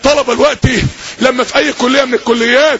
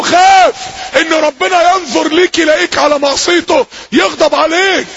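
stern warning; 3 semitones higher than usual. Retold or imitated. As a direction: shout the warning like a last chance. Preacher warns young man.

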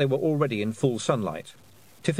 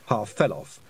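ordinary delivery

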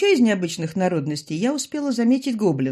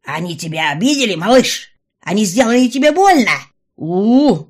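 loud, higher cooing; fussing mother; 4 semitones higher, 10 dB louder than usual. A narrator's reading. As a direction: fuss over the hurt baby. Mother fussing over her child.

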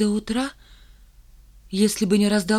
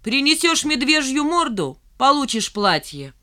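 высоко начни, к концу растяни; поторгуйся издевательски; дразнящий ультиматум; 5 semitones higher than usual. Acted. Валька дразнит с платьем. (дразнит нараспев)

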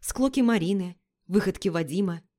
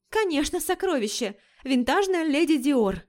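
sarcastic; 6 semitones higher than usual. Acted. Лика с сарказмом.

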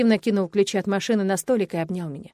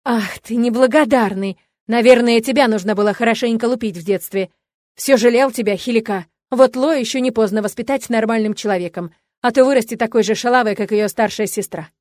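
raging father; 2 semitones higher, 7 dB louder than usual. A narrator's reading.

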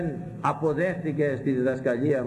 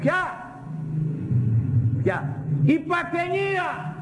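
much higher, slow, accusing preacher's challenge; indignant rebuke; 13 semitones higher than usual. Retold or imitated. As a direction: hammer the question home from way up high. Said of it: "Τους είπα".

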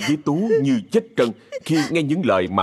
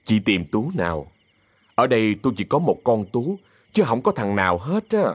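softened, conciliatory tone. Acted. Má Bảy answers the angry woman who barged in, softened tone. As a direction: keep it calm and civil. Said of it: "dịu giọng".

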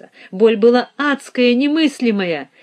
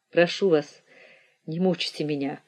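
soft tearful whispered plea; whisper sobbing; 3 semitones lower, 6 dB quieter than usual. A narrator's reading. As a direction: beg quietly through silent tears. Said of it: "беззвучно плакал".

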